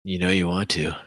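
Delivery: low, creepy tempter's whisper; whispered temptation. Acted. Voicing the tempting evil influence.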